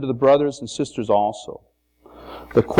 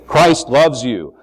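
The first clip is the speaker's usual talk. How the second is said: slow simple words; 2 semitones higher, 4 dB louder, slower than usual. Retold or imitated. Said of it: "Maybe say".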